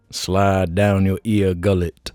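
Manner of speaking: silly slow voice. Pretend. Silly ear gullet voice.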